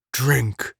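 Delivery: a lightly voiced rasping captor; rasping guttural drawl. A narrator's reading. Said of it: "The voice had a peculiar rasping quality".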